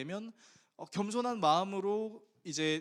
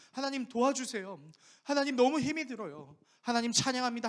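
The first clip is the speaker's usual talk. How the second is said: repeated prayer; 7 semitones higher, 5 dB louder than usual. Shown as a demonstration. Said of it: "똑같은 말을 되풀이할 수 있죠".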